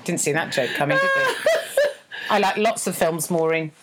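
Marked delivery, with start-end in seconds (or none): 0.0-1.4 laughing shout. Real, not acted. Host laughing at her own pun, shouting. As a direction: shout it through real laughter.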